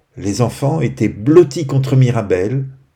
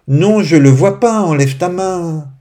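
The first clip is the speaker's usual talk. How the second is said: put-on louder, higher child's protest; 7 semitones higher, 5 dB louder than usual. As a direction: object loudly, dragging out the last words. Enfant qui proteste dans l'histoire. (enfant qui proteste, voix forte et aiguë)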